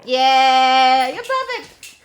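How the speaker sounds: loud, high cheer for a pet; gushing praise. Real, not acted. Telling the dog he is perfect, loud high gushing. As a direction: squeal with delight at the dog.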